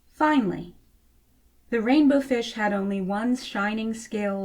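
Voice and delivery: gentle storybook reading voice; story narration. A narrator's reading. Reading a picture book to children, storybook narration. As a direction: read it like a bedtime story.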